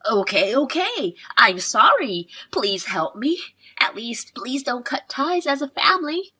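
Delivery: put-on mildly whiny, childish begging; pathetic, childish pleading. Mother-in-law begging daughter-in-law for help, childishly pleading. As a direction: beg like a helpless child, lightly overacted. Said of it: "You sound like a pathetic child".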